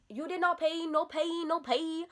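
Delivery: high, insistent mock chant; mimicked salon worker. Teller imitating the salon worker demanding payment, mocking mimicry.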